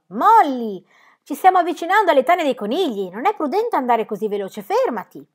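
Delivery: put-on high, loud call to a galloping child; shouting after her. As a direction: yell a warning across the park. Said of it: "le gridò".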